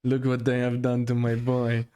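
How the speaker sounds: lightly acted Godfather line; a hint of a film character's voice; Godfather film quote. Co-host quotes Godfather One for his friend, lightly acted. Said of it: "from Godfather. This is Godfather One".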